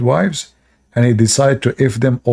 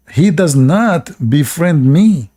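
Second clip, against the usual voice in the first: high bird voice; 6 semitones higher than usual. Acted. Voicing the female bird's complaint.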